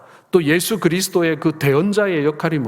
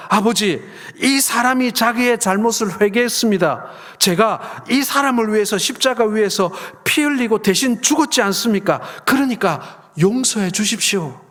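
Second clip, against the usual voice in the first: Jesus interceding; 6 semitones higher than usual. Retold or imitated.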